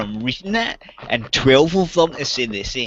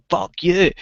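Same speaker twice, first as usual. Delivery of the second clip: retold angry retort; 5 semitones higher than usual. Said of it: "I was really angry".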